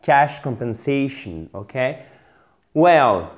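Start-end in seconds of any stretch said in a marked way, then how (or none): 0.0-1.5 slow "Cash compensation", stress just before -tion; "compensation" stressed on its next-to-last syllable. Shown as a demonstration. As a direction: draw out the "sa" in "compensation". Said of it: "on met l'accent tonique juste avant".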